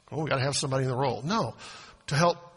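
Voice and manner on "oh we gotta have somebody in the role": mock excuse. Mocking a wrong motive.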